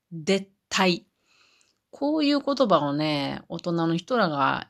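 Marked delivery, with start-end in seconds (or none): 0.1-1.1 でったい said det-tai, d for z; Wakayama pronunciation. Shown as a demonstration. Speaker showing how Wakayama folk say 絶対, でったい with d. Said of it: "絶対は".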